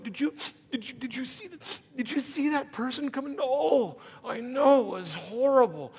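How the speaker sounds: lightly voiced fake concern over coffee; a hint of a gasping gossip; mock shocked gossip.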